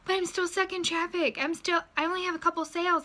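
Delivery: discouraged recruit. Retold or imitated.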